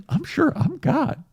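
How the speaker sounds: high, smug god voice; high smug divine reply; mock god. God answering pleading Nishi.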